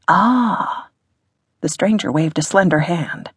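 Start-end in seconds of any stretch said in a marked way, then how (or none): 0.1-0.9 high-pitched posh English "ah"; posh English accent. A narrator's reading. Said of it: "in a posh English accent".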